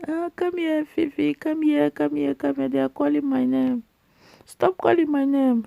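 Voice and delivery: high-pitched beckoning, repeated playfully; playful calling. Pretend. Cook voicing the dishes that call her name, playful calling.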